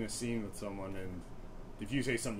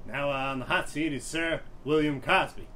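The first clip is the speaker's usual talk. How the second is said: a bit higher, louder host announcement; Regis Philbin impression; 4 semitones higher, 5 dB louder than usual. As the quiz host introducing his guest. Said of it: "he'd be like".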